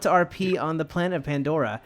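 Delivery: soft, pitiful begging; a hammed-up small plea; mock pleading. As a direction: beg quietly like a needy fan. Reading a needy fan post.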